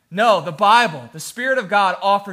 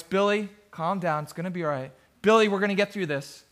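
soft, low self-soothing mutter; 2 semitones lower, 5 dB quieter than usual. Retold or imitated. Father calms himself in the cereal aisle, in a low voice. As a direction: imitate a dad quietly talking himself down. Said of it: "He's saying in a low voice".

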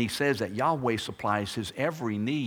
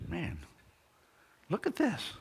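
mock exasperation; 6 semitones higher, 5 dB quieter than usual.

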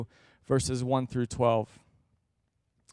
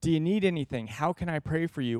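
caring check-in. Retold or imitated. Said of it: "sat down with somebody and go".

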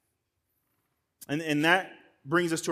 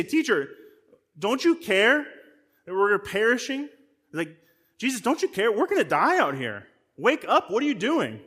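panicked cry; 5 semitones higher than usual. Retold or imitated. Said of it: "the disciples are freaked out".

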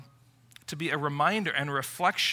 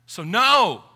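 emphatic stop; 6 semitones higher, 9 dB louder, slower than usual. Real, not acted. Preacher's emphatic closing command.

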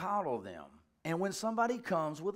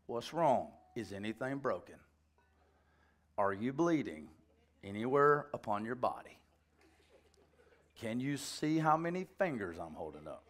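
low, measured questioning; lightly acted fatherly check for injury; calm parental check; 5 semitones lower, 3 dB quieter than usual. Father asks crying kid what's wrong, calm and low.

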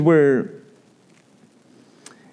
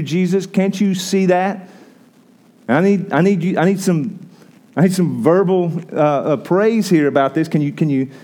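needy self-pity; 5 semitones higher than usual. Acted. Martha to Jesus, demanding praise in a higher whine. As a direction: beg to be noticed for the work. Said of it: "she's seeking approval".

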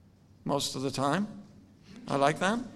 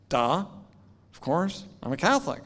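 acted-out "obviously" attitude, pitched up; mock duh; 4 semitones higher than usual. Retelling his answer to students' question, mock duh. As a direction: play a youth stating the blindingly obvious.

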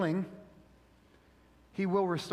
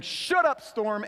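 commanding shout; 4 semitones higher, 4 dB louder, slower than usual. Retold or imitated. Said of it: "walking out and saying".

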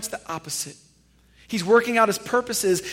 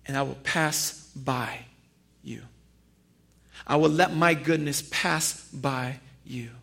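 hushed God voice; 5 semitones lower, 7 dB quieter than usual. Acted. God's voice, hushed.

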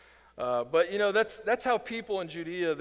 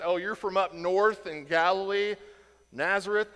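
louder mock put-down of Nazareth; sneering; 3 semitones higher, 5 dB louder than usual. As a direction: say it like a snub. Mocking a northerner.

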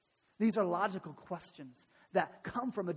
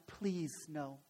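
low, soft plea; hushed acted prayer; praying; 6 semitones lower, 9 dB quieter than usual. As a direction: beg quietly, as in prayer. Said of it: "he's praying to God".

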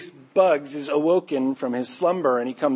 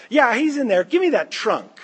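mock police officer shout; 9 semitones higher, 6 dB louder than usual. Bugs voicing the fake police officer.

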